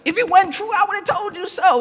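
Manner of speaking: quoting Jesus with a high, quick sarcastic edge; sarcastic spin. Retold or imitated. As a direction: twist Jesus' promise into a sarcastic jab. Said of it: "that's my own spin".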